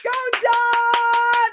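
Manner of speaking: high, excited cheer for Dawn. Real, not acted. Coach cheering a member's new job order, high excited cheer.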